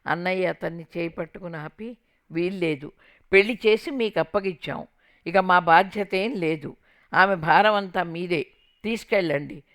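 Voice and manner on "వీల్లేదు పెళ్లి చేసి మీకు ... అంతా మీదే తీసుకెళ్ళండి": loud, firm shout at the in-laws; angry brother shouting. Retold or imitated. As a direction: shout it, refusing to take her back. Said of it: "అంటూ అరిచాడు".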